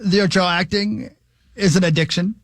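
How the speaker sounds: slow, solemn interviewer voice; James Lipton impression. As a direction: savour each word like a grave host. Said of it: "Wow, that's really good, Hawk".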